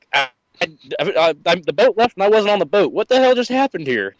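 confused. Retold or imitated. Retold confusion.

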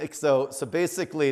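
ordinary talk

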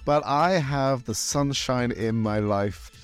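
lightly campy showbiz host; campy drag queen. Acted. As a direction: camp it up as a glamorous hostess. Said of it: "the voices".

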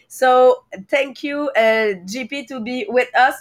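hoarse, strained voice that is almost gone; lost voice. Real, not acted. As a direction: talk through a voice that is nearly lost. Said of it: "because I have no voice".

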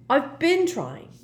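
high, loud, exasperated retort; slow, irritated stress on the retort; cross. A narrator's reading. Harry to Hermione about Slughorn's memory, cross. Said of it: "said Harry crossly".

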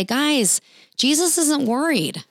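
rally the others, Jesus first; emphatic reassurance. Pretend. Speaker urges panicking friends in the storm, excited.

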